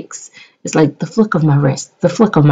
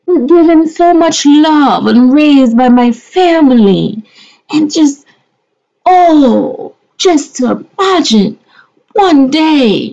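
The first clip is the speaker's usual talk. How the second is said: higher, hammed-up weepy voice; mock tearful gushing; 6 semitones higher than usual. Vlogger gushing over her reborn doll: mock-tearful, hammed-up. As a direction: overdo the tears of joy.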